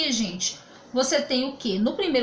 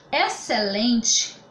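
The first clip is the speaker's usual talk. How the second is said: slow for class; 3 dB louder, much slower than usual. Shown as a demonstration. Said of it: "então, gente".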